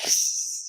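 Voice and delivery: imitated angry cat hiss; sharp voiceless mock-cat hiss. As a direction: hiss like a cat warning someone off. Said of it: "both of us turned into, like, cats".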